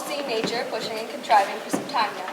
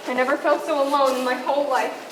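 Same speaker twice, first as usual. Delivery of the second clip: building from lonely to panicked cries; rising bridal panic; 3 semitones higher, 3 dB louder than usual. Acted. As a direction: panic swells into calling for Papa. Bride panicking before wedding.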